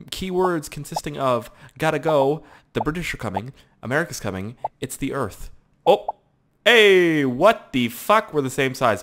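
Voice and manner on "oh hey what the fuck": high, loud, drawn-out protest; indignant surprise. Real, not acted. Gamer to player his own size, indignant surprise. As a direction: stretch out the outrage.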